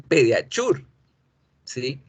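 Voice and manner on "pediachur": "pediachur" with a hard ch; Spanish speakers' CH version. Shown as a demonstration. Teacher shows how many Spanish speakers say it, hard CH. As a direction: end "pediachur" in Spanish chur. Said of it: "Muchos en español dicen".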